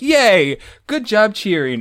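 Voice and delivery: high, loud mock cheer; retold cheering. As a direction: cheer brightly with naive eagerness.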